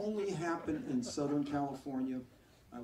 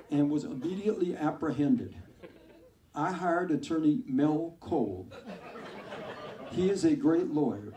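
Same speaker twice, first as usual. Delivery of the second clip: cheesy commercial pitch; 2 semitones higher, 8 dB louder than usual. Retold or imitated. Ex-con reads a TV commercial.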